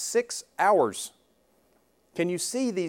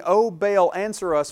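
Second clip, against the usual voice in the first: mock pleading; 4 semitones higher, 5 dB louder than usual. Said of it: "not only are they saying".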